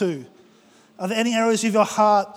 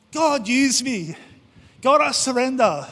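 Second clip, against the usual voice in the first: eager believer; 5 semitones higher than usual. Retold or imitated. A believer's eager prayer, acted.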